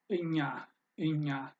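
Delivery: እኛ with G and N blended into ñ; pronunciation demo. Shown as a demonstration. Teacher repeats the word for learners, careful pronunciation demo. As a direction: say እኛ twice as "en-ya", with a Spanish ñ. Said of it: "blend together and give you the ña".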